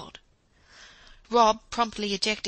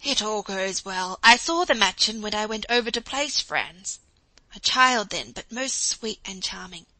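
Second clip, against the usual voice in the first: a touch of a calm German professor, somewhat louder; lightly voiced contented professor; 4 dB louder than usual. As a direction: reassure her kindly about the match. Professor calmly reassures his wife.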